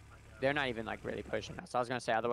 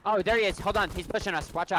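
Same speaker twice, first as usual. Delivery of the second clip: urgent, raised spotting call; excited callout; 7 semitones higher, 6 dB louder than usual. Real, not acted. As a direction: call out the enemy, alarmed. Enemy spotted, calling it out.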